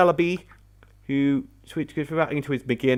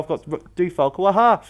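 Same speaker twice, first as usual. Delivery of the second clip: taunt; 4 semitones higher than usual. Acted. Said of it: "just sit there and go".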